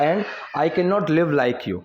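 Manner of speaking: very slow, word by word for learners; slow model reading. Shown as a demonstration. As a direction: spell it out slowly like a teacher. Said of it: "teacher models English sentence". (बहुत धीमे, शब्द-दर-शब्द पढ़ाते हुए)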